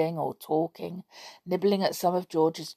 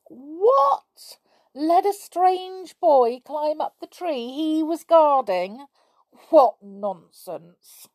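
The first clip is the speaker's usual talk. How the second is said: high, loud outraged disbelief; indignant surprise; 10 semitones higher, 5 dB louder, slower than usual. Acted. Scamper indignant at a stranger climbing, high outraged voice. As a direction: scoff in outrage.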